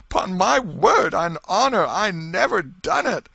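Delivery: high, loud, slow tearful plea; sobbing plea. Acted. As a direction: beg the crowd through tears. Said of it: "he sobbed".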